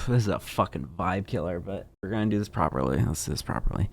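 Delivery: drops her voice to comment off the record; a muttered aside to herself before reading on; quiet aside. Real, not acted. Breaking from the statement, a quiet aside to viewers.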